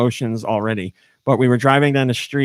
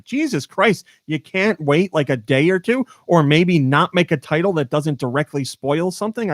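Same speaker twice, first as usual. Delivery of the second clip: high-pitched opening, then exasperated complaint; pleading, fed-up protest; 4 semitones higher than usual. Retold or imitated. Complaining about spoilers in episode titles, exasperated.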